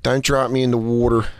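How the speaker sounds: low mock Philly accent; Philly "water", hammed up. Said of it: "whiff of a Philly accent".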